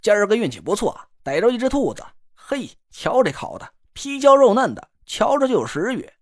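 lightly voiced teasing northern pal; cocky buddy voice. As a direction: needle your friend with a grin. The speaker shows off roasted food.

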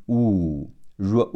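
"u" and "ru" held as a long oo; long vowel. Shown as a demonstration. Teacher sounds out O U in group, long drawn-out "ru". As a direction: draw out the oo in "ru". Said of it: "O U组合读长音".

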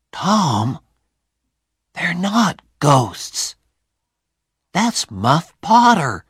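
put-on high boy's voice, slow at first; a boy realising who it is; Huck. Huck telling Tom who the men are, high boy's voice.

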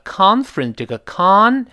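"con" in "conference" pitched highest; stress on con. Shown as a demonstration. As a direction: lift "con" as the peak. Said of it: "一般读得最高". ("con"音调最高)

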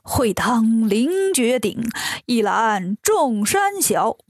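slow, drawn-out line of verse; incantation recital. A narrator's reading. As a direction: chant it slowly like a spell, stretching the words. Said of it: "念了一句".

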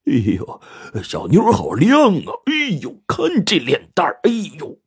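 high, swooping lecherous coos; leering flirt. A narrator's reading. White fatty ogling Xiaoqin in the salon, leering. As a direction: ooh and aah greasily, pitch leaping up. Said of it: "嬉皮笑脸的说".

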